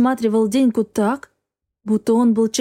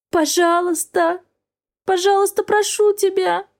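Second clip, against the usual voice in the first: desperate begging; 8 semitones higher than usual. A narrator's reading. Begging for her son.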